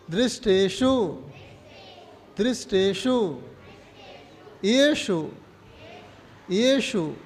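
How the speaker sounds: slow verse recitation, word by word; recitation for repetition. Shown as a demonstration. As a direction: stretch each word, leaving room to repeat. Teacher models verse for repetition.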